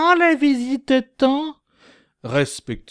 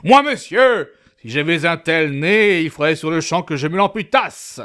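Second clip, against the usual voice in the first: hammy aggressive retort. Acted. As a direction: snap it out like a duelist.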